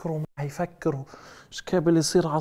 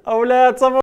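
usual speaking voice

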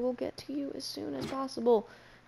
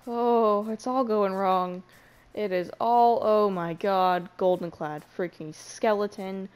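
louder, slow drawn-out panic; panicked wail; 6 dB louder, slower than usual. Real, not acted. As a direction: wail as it all goes wrong. Skeleton attack, everything going wrong.

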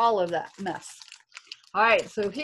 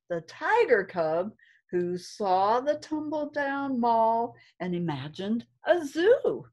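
put-on lilting read-aloud for kids; reading to children. A narrator's reading. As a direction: storytime rhythm, gentle and sing-song. Reads story to class.

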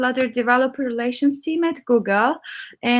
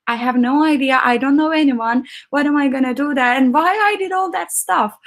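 anxious self-questioning; 2 semitones higher than usual. Retold or imitated. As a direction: voice the what-have-I-done panic. Panics about moving abroad.

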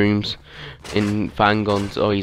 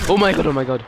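quick startled outburst, a little higher; 5 semitones higher, faster than usual. Real, not acted. Player spotting an enemy, startled outburst. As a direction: blurt it as the enemy appears. Sudden fright in the game.

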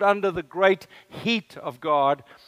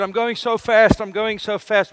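lightly voiced old man, a little higher and louder, proud of his speed; old man's words; 6 semitones higher, 8 dB louder than usual. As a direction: quote the eighty-year-old pushing the mower, lightly played. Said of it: "And he said".

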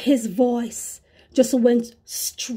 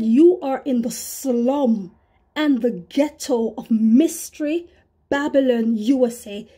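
solemn Holy Spirit. Retold or imitated. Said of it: "just like that".

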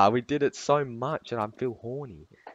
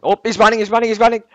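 high, loud urgent callout; excited shout; 9 semitones higher, 13 dB louder, faster than usual. Real, not acted. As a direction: yell it out as he runs. Callout as enemy flees.

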